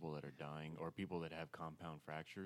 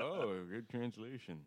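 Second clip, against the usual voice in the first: slow dry sarcasm; sarcastic; 5 semitones higher, 7 dB louder, slower than usual. Retold or imitated. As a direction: drawl it out mockingly. Mocking a literal translation.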